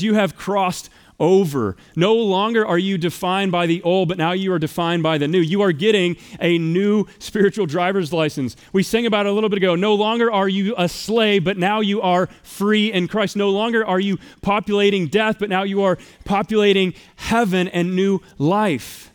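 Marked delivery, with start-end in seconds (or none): 0.0-5.4 preaching. Acted. Preaching the key verse. 9.8-19.1 slow, rising preacher's cadence; preaching. Acted. Preaching refrain.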